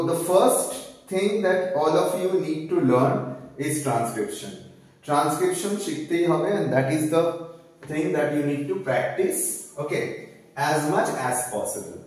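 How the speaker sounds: very slow, deliberate English; slow emphasis. Real, not acted. Teacher urges students to practice, very slow. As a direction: spell it out word by word. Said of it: "stresses key advice slowly".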